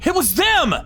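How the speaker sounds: high, urgent insistence; desperate pleading. Acted. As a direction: make the cops believe you. Client pleading with police.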